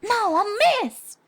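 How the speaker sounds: high, loud, slow dismay; frustrated cry. Acted. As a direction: wail at the miss. Filly missing the knob.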